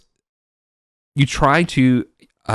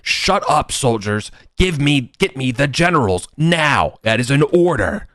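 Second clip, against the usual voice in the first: higher-pitched, contained angry command; mock screamed order; 5 semitones higher than usual. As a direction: act out a raging commander without full volume. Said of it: "he's screaming at you to being like".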